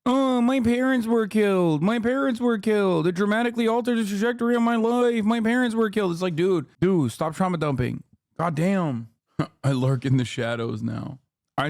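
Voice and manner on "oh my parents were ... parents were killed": mock Batman angst. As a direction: ham up a tragic hero's backstory. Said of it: "what are you, Batman?".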